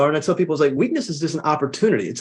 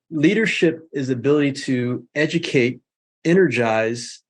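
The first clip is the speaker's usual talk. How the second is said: said slow. Shown as a demonstration. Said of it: "I'll say it slow so people can".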